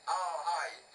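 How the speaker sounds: rally the troops in a Scottish lilt. Acted. Old Scottish soldier announcing himself to Sam in a Scottish lilt. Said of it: "In Scottish lilt, he announced".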